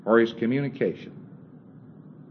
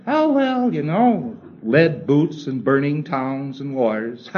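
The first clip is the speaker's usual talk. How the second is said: much higher and louder, delighted; gleeful thetan; 4 semitones higher, 5 dB louder, slower than usual. Retold or imitated. The thetan finally enjoying the idea, high and gleeful. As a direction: relish it like a thrilling idea. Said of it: "He says".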